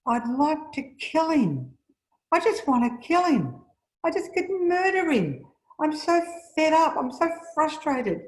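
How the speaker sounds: quoting Meg's rage, pitched high and loud; murderous rage. Retold or imitated. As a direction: voice Meg's hatred of her husband. Meg voiced wanting to murder.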